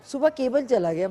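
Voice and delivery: playful impression of a mother exclaiming; imitating mama. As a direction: put on mom breaking some news. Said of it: "तो खामखा कह देती".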